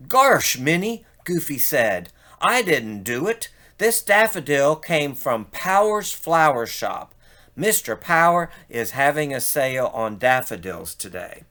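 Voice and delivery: hint of a dopey cartoon dog; Goofy voice. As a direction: play a lightly goofy fellow.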